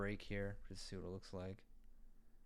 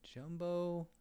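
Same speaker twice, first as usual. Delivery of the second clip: high, louder startled question; surprised; 9 semitones higher, 4 dB louder than usual. Real, not acted. Designer startled by a jumbo button, surprised. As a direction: jolt up at the size of it.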